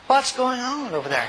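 slow, hesitant imitated question; sheepish question. Hotel manager asks about the praying, sheepish and slow. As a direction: ask it carefully and slowly. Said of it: "kinda sheepishly".

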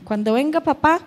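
hint of a tiny child talking like an old lady; little-old-lady child. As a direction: lightly mimic a small daughter's grown-up chatter. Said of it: "habla como una viejilla".

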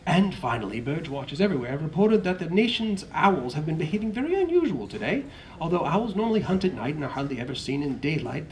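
lightly voiced TV news anchor; newsreader. Newscaster reporting odd owl behaviour, light news-anchor read. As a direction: read it like an evening news bulletin.

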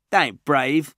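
put-on high, loud tough little boy; a scrappy kid who feels a pang; little kid Josh. Little Josh mourning the taken boy, high kid voice. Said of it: "said Josh".

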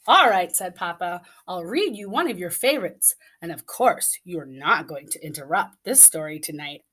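expressive storybook reading; reading to children. A narrator's reading. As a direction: read it like bedtime story time. Reading picture book aloud.

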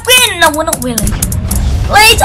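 high, whiny mock begging for mercy; mock pleading. Gamer begging a rival player, high mock plea. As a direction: beg for your life, hammed up.

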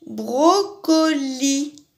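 "Brocoli" drawn out again, slow and even; patient slow repeat of "Brocoli"; slow syllable reading. Shown as a demonstration. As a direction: linger on each syllable of "Brocoli". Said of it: "ça finit comme tapis".

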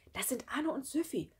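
high, slightly hushed spoilsport; whispered teacher tone. A narrator's reading. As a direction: announce it like a teacher spoiling fun. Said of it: "flüsterte Mareike und hatte den Ton einer Lehrerin". (leise im Lehrerinnenton)

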